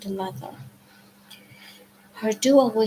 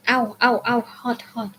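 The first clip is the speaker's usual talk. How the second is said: pained yelps; 3 semitones higher than usual. Acted. Fury burned by the whip.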